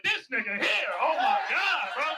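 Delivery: high, drawn-out exasperated disbelief; retold getting mad. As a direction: stretch it out in mock outrage. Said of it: "I'm just getting mad as shit".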